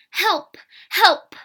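loud, high cries of alarm; calling for help. A narrator's reading. Child running to the villagers, calling out. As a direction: cry out urgently to be heard far off. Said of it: "I called to the villagers".

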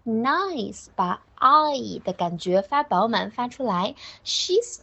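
"nice" with a slow, full long I; full drawn-out vowel. Shown as a demonstration. Teacher showing pupils the sound, full drawn-out vowel. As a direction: stretch the vowel in "nice" fully.

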